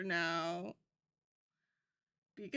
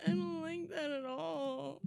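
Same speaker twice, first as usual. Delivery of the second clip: laughing; 4 semitones higher than usual. Real, not acted. Laughing fit.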